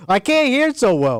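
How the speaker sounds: high, lightly voiced old man. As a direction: play a hard-of-hearing grandpa. Plays old grandpa.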